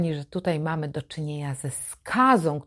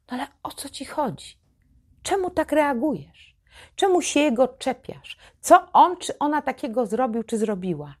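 higher-pitched, condescending questioning; patronizing mockery; 6 semitones higher than usual. Manipulative partner asking why you react like that, patronizing and mocking. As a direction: imitate a scornful partner feigning bewilderment. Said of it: "takim protekcjonalnym tonem, patrząc na ciebie z góry, z pogardą, kpiąc".

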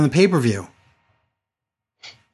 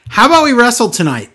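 mocking quote; 8 semitones higher, 5 dB louder than usual. Mocking a wrestler's challenge.

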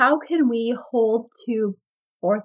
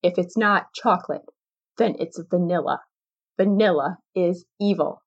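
cold voice; 3 semitones lower than usual. Acted. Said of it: "In a cold voice, they slowly say".

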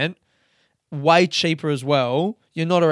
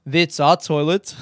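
put-on clipped-vowel South African accent, a bit slower; 4 dB louder than usual. Camper telling a stranger it's their toilet, South African accent. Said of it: "I'm not gonna do the accent anymore".

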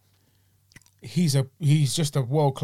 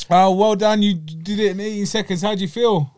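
higher, lively mock interviewer; imitated interviewer; 4 semitones higher, 3 dB louder than usual. Interviewer congratulating the quick winner, lively higher mimicry. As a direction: put on an eager interviewer's question. Acts out the post-fight interviewer.

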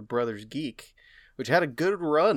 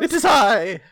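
high, loud cartoon cat greeting; a squeaky cat character shouting hello; Cat Vera voice; 12 semitones higher, 13 dB louder, slower than usual. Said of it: "Oh, you're in Cat Vera's".

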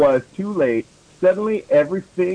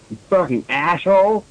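understated mock-angry shout; mild angry shout. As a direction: read an angry shout with little force. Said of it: "James shouted angrily".

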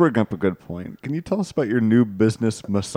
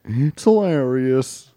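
slow, stiff robot voice; 2 semitones higher, much slower than usual. Retold or imitated. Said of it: "he kinda sound like".

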